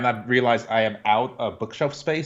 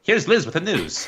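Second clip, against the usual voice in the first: news announcer; 6 semitones higher, slower than usual. Pretend. Introducing co-host as newsreader.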